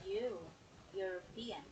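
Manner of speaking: European begun with a "you" sound; pronunciation demo. Shown as a demonstration. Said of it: "pronounced as U".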